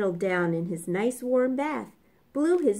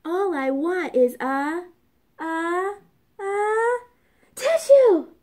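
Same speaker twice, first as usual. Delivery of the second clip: rising higher and louder into a sneeze; building sneeze; 8 semitones higher, 5 dB louder than usual. Acted. Wolf asks for a tissue, climbing into a sneeze. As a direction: stammer up toward a big sneeze.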